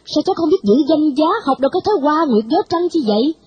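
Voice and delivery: lightly voiced stern grandmother shaming the girl; stern old lady scolding. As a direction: chide the girl like a strict old matron. Bà Thị scolds Anh Nguyệt.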